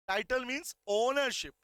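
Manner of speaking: slow, deliberate reading of the law text; slow dictation. Shown as a demonstration. Teacher dictating slowly to students. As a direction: dictate each word slowly to the class. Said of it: "dictating definition".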